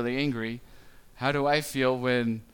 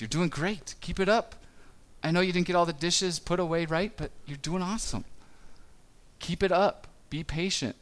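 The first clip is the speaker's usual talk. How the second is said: encouraging parent; 4 semitones higher than usual. Retold or imitated. Parent coaching with praise.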